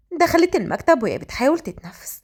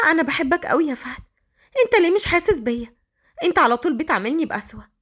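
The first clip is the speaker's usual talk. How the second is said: higher-pitched lovesick pleading; 5 semitones higher, faster than usual. Acted. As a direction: plead quickly with the man you love. Spurned woman pleads her love. (بترجّي ولهفة)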